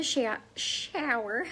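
Southern twang on SHOWER, vowel drawn out; thick-ish Tennessee shower; Tennessee accent. Real, not acted. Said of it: "how do you like that accent".

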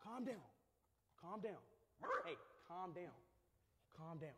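soft, soothing command; hushed calming. Real, not acted. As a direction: settle an agitated animal quietly. Settling agitated barking animals.

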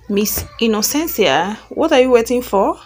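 a touch of mocking impatience, pitch lifting on the question; lightly sarcastic boss needling his secretary. Boss teases the frozen secretary in front of guest, mildly sarcastic. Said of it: "asked Mister Black in a sarcastic voice".

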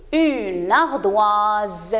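"ardoise" drawn out slowly, ending on a voiced Z; prononciation en Z. Shown as a demonstration. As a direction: say "ardoise" very slowly with a buzzing final Z. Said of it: "il va être prononcé Z". (« ardoise » très lentement, avec le son Z à la fin)

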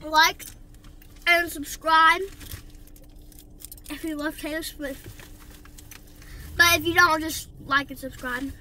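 loud outro shout. Real, not acted.

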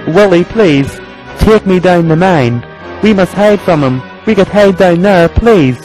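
high-pitched anxious plea; fearful little engine pleading; scared. A narrator's reading. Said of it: "He was very scared".

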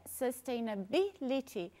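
"Sustainability" slowly, syllable by syllable; split into syllables. Shown as a demonstration. Teacher divides the long word for learners, slow syllable by syllable. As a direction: break "Sustainability" into slow separate beats. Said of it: "o que que a gente vai fazer?".

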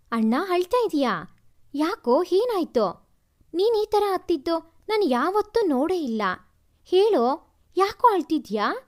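lightly voiced younger sister, anxious and pleading; worried little sister. Sister finds her brother crying on the terrace, worried pleading. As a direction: coax your brother to say why he cries.

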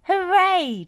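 high, loud hooray; cheering. A narrator's reading. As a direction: let out a big cheer. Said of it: "cheered the machines".

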